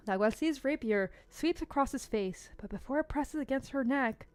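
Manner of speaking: soft, measured storyteller reading; story narration. A narrator's reading. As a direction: narrate the scene in a hushed, even voice.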